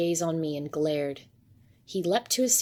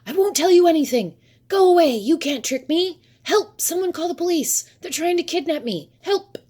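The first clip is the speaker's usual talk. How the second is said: high, loud, frantic shrieking; screaming; 11 semitones higher, 9 dB louder than usual. A narrator's reading. Paranoid cat man behind glass at child seller, screaming. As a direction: scream for help as if being kidnapped.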